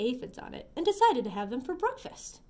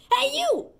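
high, loud challenge; grouchy shout; 8 dB louder than usual. Acted. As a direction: call out like a cocky bully. Grouchy ladybug picks fights.

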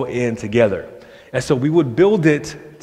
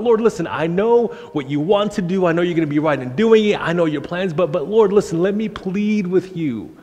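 a hint of pleading Moses; 5 semitones higher than usual.

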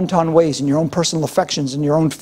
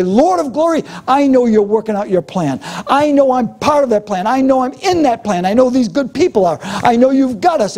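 fervent prayer; 5 semitones higher than usual. Shown as a demonstration.

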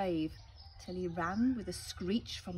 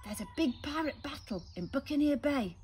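a man announcing; 7 semitones higher, 4 dB louder than usual. Acted. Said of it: "she heard a man say".

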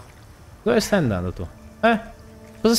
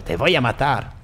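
mock Spanish threat; 3 semitones lower than usual. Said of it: "è il vostro saluto qua dentro".

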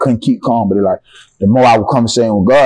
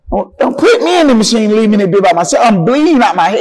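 scared pleading; 9 semitones higher than usual. Retold or imitated. Pleading with staff at scan.

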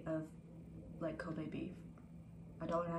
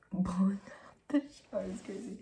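laughing whisper; 4 dB louder than usual. Real, not acted. Laughing at roommate's shower noise.

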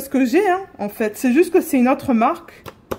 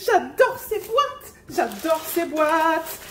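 delighted; 3 semitones higher, 3 dB quieter, much slower than usual. Real, not acted. Delighted with the boxes.

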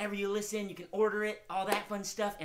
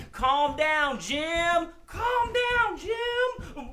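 high, loud sing-out command; calling out; 12 semitones higher, 8 dB louder, much slower than usual. Pretend. Host leads kids calming the excited dog, loud high call. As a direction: call over the dog's commotion. Leading audience to calm the dog.

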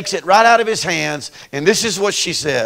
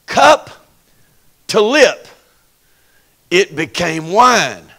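rising declaration; 4 dB louder, slower than usual. Acted. Preacher building climax.

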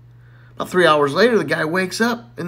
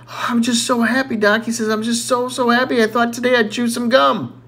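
giddy happy; 7 semitones higher than usual. Acted. Johnny bouncing, overjoyed.

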